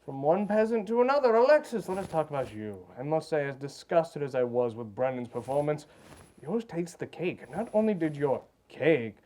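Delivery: lightly voiced arrogant Taskmaster; looking down on the peasants; haughty judge. Haughty Taskmaster judging contestants.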